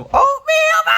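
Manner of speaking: slow, loud happy shout; excited shout. Real, not acted. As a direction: call it out with joy. Excited about oatmeal, shouting.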